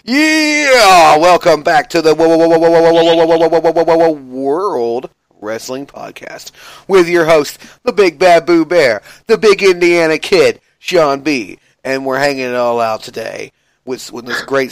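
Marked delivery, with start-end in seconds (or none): 0.0-11.6 hyped wrestling announcer. Acted. Host welcomes wrestling fans back to the podcast, hyped announcer. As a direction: belt out the show intro like a ring announcer.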